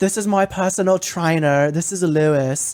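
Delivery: put-on trying out a British accent. Retelling a woman introducing her personal trainer in a montage: attempted British accent. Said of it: "so I'm gonna try it in a British voice".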